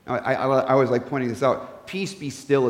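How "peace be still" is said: "Peace, be still" said lower and softer as a gentle calm; calming phrase. Shown as a demonstration. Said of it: "a nice, calming kind of phrase".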